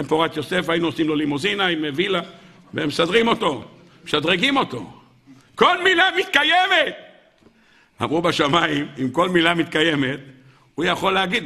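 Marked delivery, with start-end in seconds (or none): 5.5-6.9 high, ringing exclamation; amazed proclamation. A narrator's reading. Preacher drives the wondrous decree home, amazed proclamation. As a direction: cry it out in wonder.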